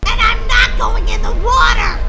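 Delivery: loud, high defiant shout; shouted refusal. Acted. Girl refuses her sister about the water, shouting. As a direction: yell it, digging your heels in.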